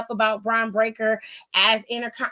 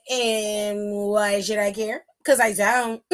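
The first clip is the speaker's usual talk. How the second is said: Bluey's dad quote; 3 semitones lower, slower than usual. Retold or imitated. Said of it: "In the words of Bluey's dad".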